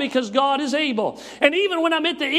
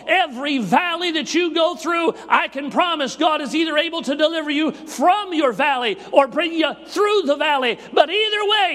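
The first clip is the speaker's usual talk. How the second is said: shouted promise; 3 semitones higher than usual. Acted.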